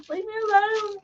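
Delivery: laughing mock protest. Joking about slow walking.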